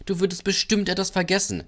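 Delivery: high-pitched teasing; mocking. A narrator's reading. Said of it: "Die anderen Loks lachten".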